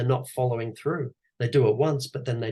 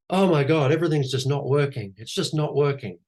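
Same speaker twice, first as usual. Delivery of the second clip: raised, louder alarmed complaint; "Oh my God" higher and louder, then falling; mock panic; 4 semitones higher, 3 dB louder than usual. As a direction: play a frantic founder convinced all is failing. Panicked business owner acted out.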